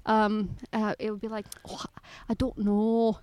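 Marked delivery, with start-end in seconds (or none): 1.7-3.2 imitated British lilt; playful British-sounding intonation. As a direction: mimic the tune of British speech. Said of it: "but just, like, the intonation".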